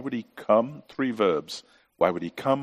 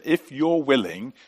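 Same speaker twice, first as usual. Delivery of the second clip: desperate plea. Retold or imitated. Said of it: "He comes with this desperation".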